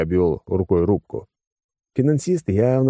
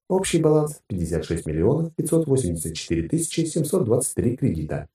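automated announcement; 6 semitones higher than usual. Acted. Account system reporting a money transfer, automated announcement. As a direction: read it out like an automatic account alert.

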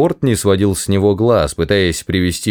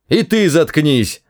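higher, drawn-out snap; barked; 7 semitones higher than usual. A narrator's reading. Ford silencing the shouting guard, mildly barked. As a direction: tell him off with restrained irritation. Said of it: "рявкнул Форд".

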